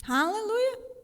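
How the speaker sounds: joyful cry. Real, not acted. Exclamation in sermon.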